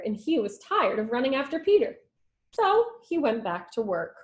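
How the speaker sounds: put-on lively read-aloud storytelling for children; story narration. A narrator's reading. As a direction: read it like a teacher to the class. Teacher reads story aloud.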